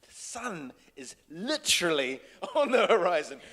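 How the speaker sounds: loud, high, hammed-up inner panic. Director silently desperate as the light goes, mock panic. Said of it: "I'm not thinking, like".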